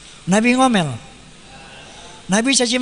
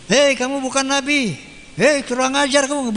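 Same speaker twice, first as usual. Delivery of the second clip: higher, hammed-up rebuke; mock angry scolding; 5 semitones higher than usual. Preacher imagines the prophet insulting his attackers, mock angry. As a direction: play a prophet telling people off, half-seriously.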